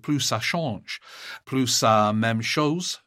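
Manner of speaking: put-on a French-accented phrase, the second half slowed; a mock French accent. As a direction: lean into French vowels for the saying, unhurried. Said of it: "Excuse my French accent".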